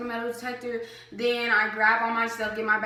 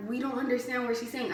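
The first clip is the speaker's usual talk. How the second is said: under their breath; 5 dB quieter than usual. Retold or imitated. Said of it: "under her breath".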